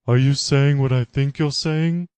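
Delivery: a strained disbelieving question; incredulous Laura. Acted. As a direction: react with dawning shock.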